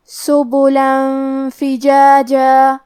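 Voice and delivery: سبلا فجاجا with the tanween hidden in a nasal hum; ikhfa with ghunna. Shown as a demonstration. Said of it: "تنوین کو چھپاتے ہوئے اور غنہ کے ساتھ".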